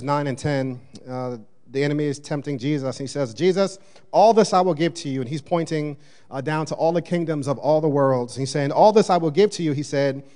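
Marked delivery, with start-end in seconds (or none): 3.3-5.2 louder, higher tempting offer; mock tempter calling out his offer; tempter's voice. Satan tempting Jesus, voiced. 8.7-9.7 louder, higher tempting offer; mock tempter calling out his offer; tempter's voice. Satan's offer repeated, voiced.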